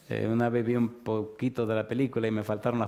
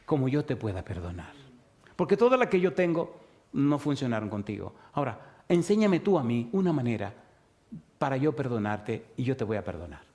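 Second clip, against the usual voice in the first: gentle voice of God. Acted. God gently pleading with his wayward people, lightly voiced. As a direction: coax him closer, almost begging. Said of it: "La pregunta se podría traducir de esta manera".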